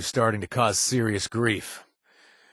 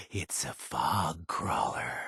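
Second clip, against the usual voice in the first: hushed secret whisper; 9 semitones lower, 9 dB quieter, slower than usual. Acted. Beckett whispering the target to the player. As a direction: lean in and whisper the reveal.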